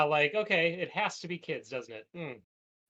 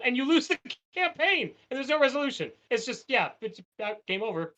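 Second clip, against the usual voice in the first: laughing; 10 semitones higher, 5 dB louder than usual. Real, not acted. Laughing at game loss.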